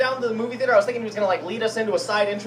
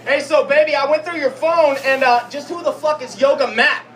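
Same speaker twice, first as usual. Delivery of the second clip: lightly voiced jealous husband, higher and louder; a suspicious husband confronting his wife; husband grilling his wife about her health-kick friends; 4 semitones higher, 3 dB louder than usual. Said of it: "a man who believes... wife cheating".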